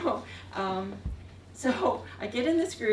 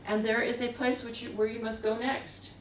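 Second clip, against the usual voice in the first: lightly imitated Quebec accent; mild French-Canadian accent, careful wording. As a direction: retell it with a touch of Quebec accent. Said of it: "he says in his accent".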